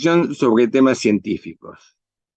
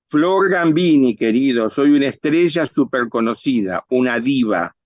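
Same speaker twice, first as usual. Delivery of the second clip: diva presumida. Acted.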